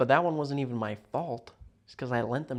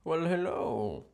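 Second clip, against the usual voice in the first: slower, higher smarmy "well, hello"; a slower hammed-up lounge-lizard hello; suave thin-mustache voice; 5 semitones higher, slower than usual. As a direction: draw out the greeting like a cartoon smoothie. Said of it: "Who would talk like that?".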